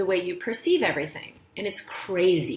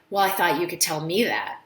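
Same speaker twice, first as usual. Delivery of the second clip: a touch of snippy challenge; mildly testy, like she's baiting you; lightly imitated snippy patient. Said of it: "I can't believe she was so snippy".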